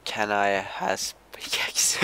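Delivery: lolcat voice. Acted. Silly lolcat-style request.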